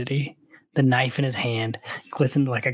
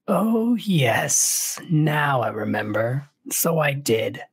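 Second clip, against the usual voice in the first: lightly voiced Baron, drawn-out opening; a hint of theatrical remembering; feigned recollection; slower than usual.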